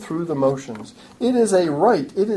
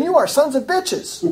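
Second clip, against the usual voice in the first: mock harsh accusation; 9 semitones higher than usual. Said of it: "me calling people into a hearing session and saying".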